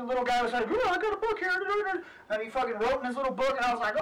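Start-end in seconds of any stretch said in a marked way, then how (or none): 0.7-1.5 game character voice. Retold or imitated.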